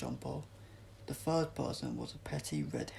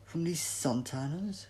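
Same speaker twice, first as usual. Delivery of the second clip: sneering; 4 semitones higher, 4 dB louder than usual. Acted. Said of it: "she sneered".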